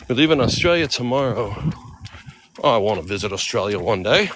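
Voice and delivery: shaky Australian accent that slips towards Irish; amateur Australian accent attempt. Shown as a demonstration. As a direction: try Aussie and land near Irish. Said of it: "That sounds Irish".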